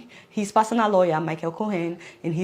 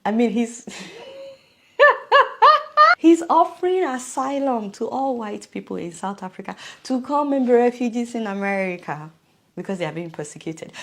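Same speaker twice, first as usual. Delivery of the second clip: normal talking voice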